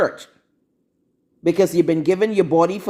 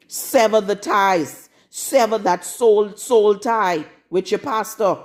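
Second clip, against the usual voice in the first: slow commanding; 2 semitones higher, slower than usual. Real, not acted. Commanding her listeners.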